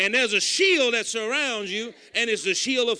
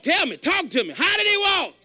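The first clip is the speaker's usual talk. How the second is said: higher, urgent call to the crowd; preacher's call; 6 semitones higher than usual. Acted. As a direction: demand an answer from the pews. Call to congregation.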